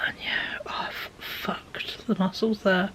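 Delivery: slow, breathless whisper from pain. Real, not acted. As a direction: let the words sink into a worn-out whisper. Tired, in pain, trailing off.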